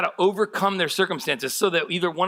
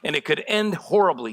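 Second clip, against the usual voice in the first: higher-pitched, hammed-up doom forecasting; self-styled realist; 6 semitones higher than usual. Pessimist defending predictions of disaster as realism, mock self-styled realist. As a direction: protest defensively as the imagined pessimist. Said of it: "you call it being a realist".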